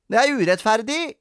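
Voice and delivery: put-on high, whining child's protest; loud, hurt objection; aggrieved. A narrator's reading. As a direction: complain of injustice in a game. Sara complains of unfairness.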